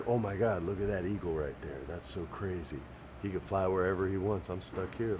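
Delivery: soft, low, awed murmur; hushed wonder. Retold or imitated. An inward contestant quietly awed by an eagle overhead. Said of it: "They're like".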